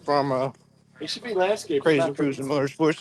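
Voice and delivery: talking through a mouthful of donut; mouth full. Real, not acted. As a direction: speak around a bite of food. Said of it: "I currently have a donut in my mouth".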